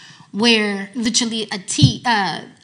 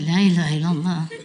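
laughing; 6 semitones lower, faster than usual. Retold or imitated. Dismay at the fly hadith.

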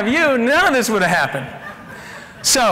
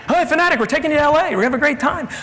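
excited; 6 semitones higher, faster than usual. Retold or imitated. Players greeting the mascot.

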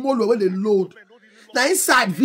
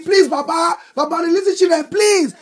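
high, repeated appeal to an elder; begging; 5 semitones higher than usual. Acted. Public begging Baba to free the children, high pleading. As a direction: plead in a raised, imitated voice. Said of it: "we are all begging".

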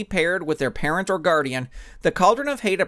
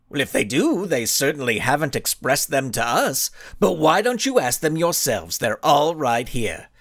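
cocky villain speech. Acted. Blinding Skull addressing reporters with cocky pride. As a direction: savour each word, mock-humble.

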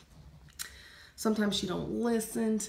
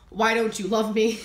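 mock wedding vow; 6 dB louder than usual. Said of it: "at the end will be".

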